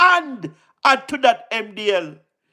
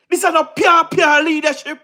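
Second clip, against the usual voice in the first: proud shout; 5 semitones higher than usual. Real, not acted. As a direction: shout it out with pride. Boasting, rising shout.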